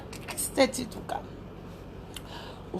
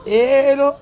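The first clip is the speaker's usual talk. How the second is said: laughing hello; 3 semitones higher, 4 dB louder than usual. Real, not acted. Greeting a viewer and laughing.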